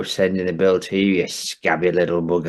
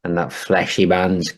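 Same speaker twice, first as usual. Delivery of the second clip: a crusty Yorkshire grump moaning; lightly voiced grumpy northern bloke; gruff northern old man. Stamp character rant.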